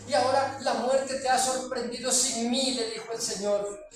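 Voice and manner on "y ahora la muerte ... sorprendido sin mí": voice breaking. Retold or imitated. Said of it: "su voz se le quebrantó".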